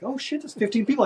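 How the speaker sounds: high-pitched mock alarm; retold exclamation. Rider shooting up past the crowd, retold exclamation. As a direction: blurt it high as you relive it.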